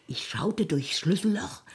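whisper. Acted. Heimliches Spähen durchs Schlüsselloch.

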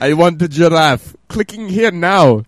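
hammed-up kid begging; childish want. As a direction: demand the giraffe like a spoiled child. Repeats childish demand, bigger.

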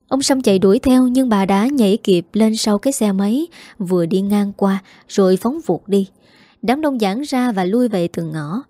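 plain reading voice

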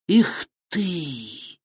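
sharp startled cry; startled exclamation. Acted. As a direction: gasp it out with a shudder. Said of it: "воскликнул Федя, слегка вздрогнув".

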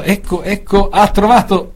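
excited. Real, not acted. Excited live commentary of search.

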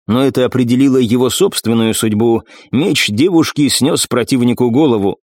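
plain reading voice

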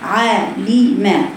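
عالمة said very slowly, syllable by syllable; careful articulation demo of عالمة; drawn-out syllables. Shown as a demonstration. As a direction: stretch out each sound of عالمة. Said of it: "أنا لما أجي أقول مثلًا إيه".

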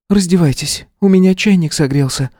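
high voiced female teacher; kindly woman. A narrator's reading. Lidia inviting the cold arrivals inside, welcoming. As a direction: welcome them in gently.

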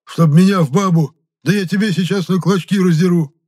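high, loud outraged bellow; acted enraged yell at full voice; furious roar. A narrator's reading. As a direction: roar in indignation. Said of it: "взревел Епифан Роман".

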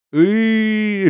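high wordless howl; wailing roar. A narrator's reading. Ulya howling as she runs home, high and wailing. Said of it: "ревела она".

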